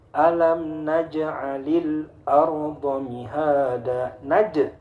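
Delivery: ALAM NAJ'ALIL ARDA MIHADA chanted slowly, J bounced; bouncing qalqalah. Shown as a demonstration. Teacher recites jim example, slow bouncing qalqalah. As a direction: echo the J of NAJ as 'naj-je'. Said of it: "qalqalah jimnya itu memantul".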